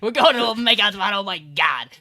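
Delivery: loud, high flustered outburst; hammed-up flustered realisation; mock panic. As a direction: blurt it out in mock alarm. Acted panic at a makeout spot.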